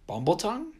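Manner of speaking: high, loud shout. A narrator's reading. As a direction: shout it out gleefully. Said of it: "Gumbaby shouted".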